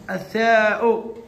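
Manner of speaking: الثاء drawn out slowly and clearly; slow letter name. Shown as a demonstration. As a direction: present الثاء slowly for the class. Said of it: "ننتقل إلى الثاء". (نطق الثاء ببطء ووضوح)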